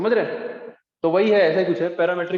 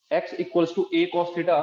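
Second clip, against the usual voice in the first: very slow, measured dictation; dictating; much slower than usual. Real, not acted. Teacher dictating an equation to students writing it, slow dictation. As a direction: spell out the equation slowly for note-takers.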